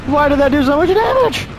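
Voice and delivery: blurting out his outrage; outraged complaint. Real, not acted. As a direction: gamer protesting the damage. Outraged at damage.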